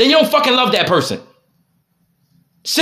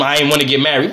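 mocking wife; 6 semitones lower, faster than usual. Mimicking his wife.

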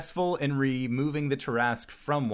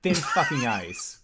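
angry. Acted. Boss scolds underling angrily.

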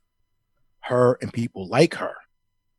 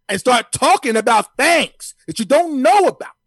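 Stephen A Smith impression; 2 semitones higher, 3 dB louder than usual. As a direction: start measured, then climb into a full TV rant. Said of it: "Stephen A Smith, how do you feel about Drew Brees?".

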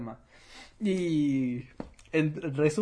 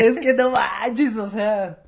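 laughing outburst; 7 semitones higher, 9 dB louder, slower than usual. Real, not acted.

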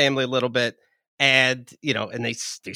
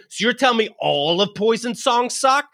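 sarcastic retort; 4 semitones higher than usual. Retold or imitated. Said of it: "That'd be me saying".

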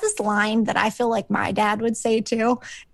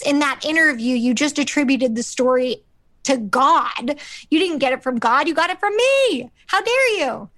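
hammed-up outrage that climbs as it goes; mock tirade; 2 semitones higher than usual. Frasier to the author who stole his story, mock indignant rant. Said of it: "on a tirade".

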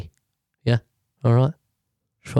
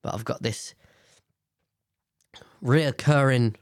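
blocked nose from sinus infection; nasal, stuffed-up voice. Real, not acted. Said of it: "I'm really sorry about the nasalness".

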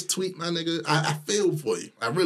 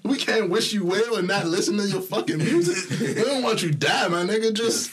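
heated rant; 9 semitones higher than usual. Real, not acted. Ranting about the tweet.

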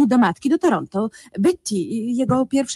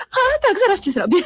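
much higher, a nervous giggle; flustered laugh; 10 semitones higher than usual. Acted. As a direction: hurry away laughing it off. Wife flustered, fleeing conversation.

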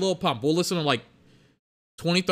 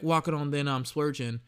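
half-asleep rapper; 5 dB quieter than usual. Retold or imitated. Showing viewers the new song's hook, half-asleep delivery. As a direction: mimic a rapper too drowsy to bother. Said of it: "he just sounds like he's half asleep".

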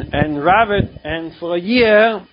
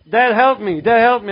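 son pleading to father; 5 semitones higher than usual. Retold or imitated. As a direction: call on him like a child to his father. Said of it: "like a son to a father".

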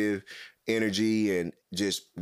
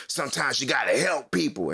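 imitating a slight yell, pitched higher; lightly raised mock-scolding voice; mild retold yell; 4 semitones higher than usual. Man in line scolded for not helping, mild retold yell. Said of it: "kinda yelled a little bit".

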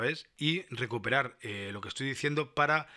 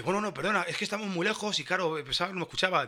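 backpedalling clerk; 5 semitones higher than usual. Retold or imitated. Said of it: "el tío se ha levantado y dice".

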